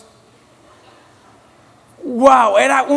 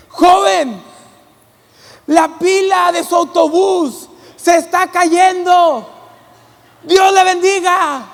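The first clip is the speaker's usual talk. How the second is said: kind lady; 5 semitones higher, 4 dB louder, slower than usual. Retold or imitated. Lady voiced, calm, kindly.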